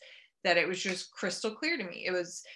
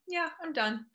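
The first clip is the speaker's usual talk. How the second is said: decided; 9 semitones higher than usual. Retold or imitated. Telling mom she's done.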